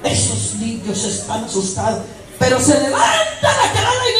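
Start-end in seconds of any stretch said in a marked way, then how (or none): 2.4-4.1 high, loud shouted announcement; hammed-up rousing shout; mock proclamation. Preacher mocking the churchgoing wife as she rises, proclaiming shout.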